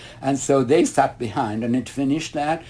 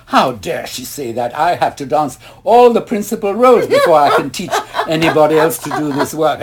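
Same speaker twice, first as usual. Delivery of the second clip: indignant outburst; 2 semitones higher, 6 dB louder than usual. Retold or imitated. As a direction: relive the outrage at being held back. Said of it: "And I was indignant".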